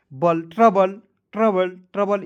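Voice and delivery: ट्रबल ending in an unrounded "bəl"; model pronunciation. Shown as a demonstration. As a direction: repeat ट्रबल as "TRA-bəl". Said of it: "इस तरीके से".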